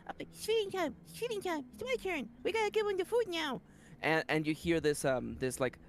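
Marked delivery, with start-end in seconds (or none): 0.1-3.6 very high, tiny excited creature voices; squeaky little creatures. Acted. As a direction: chirp it out like little gremlins. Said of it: "the voice of the Golets and the Mechanites going like".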